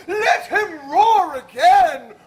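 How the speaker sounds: slow bellowing roar. Acted. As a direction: roar it to the rafters. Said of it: "I will roar".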